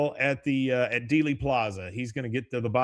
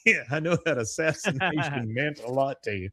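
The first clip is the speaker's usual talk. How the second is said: imitating Hank; 2 semitones higher than usual. Mimicking Hank comforting Dale, a lightly put-on Hank voice. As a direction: mimic Hank's sympathy line. Repeats Hank's line in a put-on voice.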